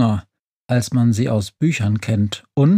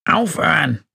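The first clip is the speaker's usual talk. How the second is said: higher, croaked protest; croaking; 5 semitones higher than usual. A narrator's reading. Günther protesting the awful carol, croaking. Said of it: "krächzt Günther".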